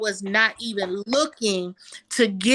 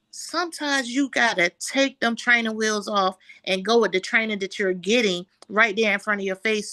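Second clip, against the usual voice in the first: ordinary talk, nothing marked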